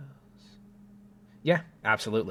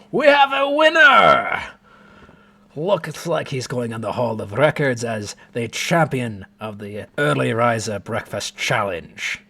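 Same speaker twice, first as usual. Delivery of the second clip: excited announcer; 4 semitones higher, 10 dB louder than usual. Acted. Dwarf announcing the winner.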